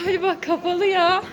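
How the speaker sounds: out of breath, panting; breathless from rushing; gasping for air. Real, not acted. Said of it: "nefes nefese kaldım".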